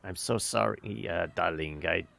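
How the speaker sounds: syrupy fake politeness, dropping low; a mock-polite jeer; mockingly polite. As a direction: sneer sweetly, politeness as an insult. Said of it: "a clear mockingly polite".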